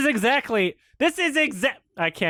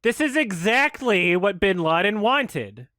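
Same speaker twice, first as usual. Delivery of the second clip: slow drawling Texan delivery; Texan accent; slower than usual. Pretend. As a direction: say it like a Texan cowboy. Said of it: "I'll do it in a Texan accent".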